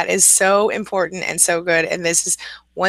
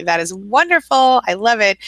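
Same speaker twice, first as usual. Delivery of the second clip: delighted; 3 semitones higher, 4 dB louder than usual. Real, not acted. Viewer optimistic today.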